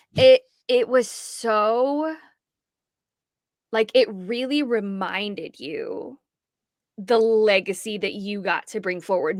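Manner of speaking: choked up, voice catching, drawn-out so. Recalling the castle moment, the speaker gets choked up. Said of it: "getting choked up".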